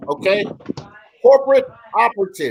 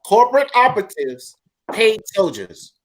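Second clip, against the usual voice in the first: emphatic repeat. Shown as a demonstration. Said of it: "Say that one more time".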